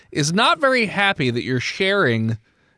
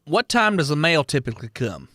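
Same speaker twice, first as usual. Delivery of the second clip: put-on Southern accent. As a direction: read it as a Southern cop. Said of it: "now I'm fucking Southern".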